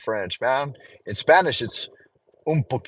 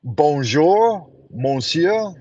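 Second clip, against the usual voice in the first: French greeting; much slower than usual. Shown as a demonstration. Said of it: "I can say".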